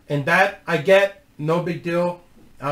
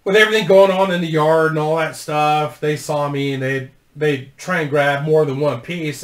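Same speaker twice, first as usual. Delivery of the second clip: ordinary delivery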